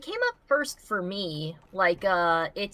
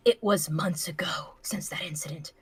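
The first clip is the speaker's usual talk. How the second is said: whispered narration; 3 dB quieter than usual. Acted. Dramatic story time skip.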